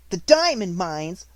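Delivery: loud, slow mocking outburst; scornful outburst. A narrator's reading. Lavinia breaking in scornfully on Sarah's story, loud and slow. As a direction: burst in with contempt. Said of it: "broke out Lavinia".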